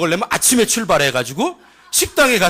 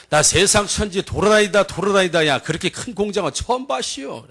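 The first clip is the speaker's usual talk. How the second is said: lightly imitated country storyteller; a hint of awed rural dialect; imitating cousin. Cousin tells villagers of the huge factory, lightly imitated. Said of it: "저 비슷해요?".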